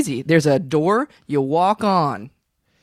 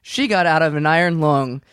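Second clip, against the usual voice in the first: slow, halting improvised limerick; limerick recital; much slower than usual. Acted. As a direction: recite it line by line, feeling out the rhyme.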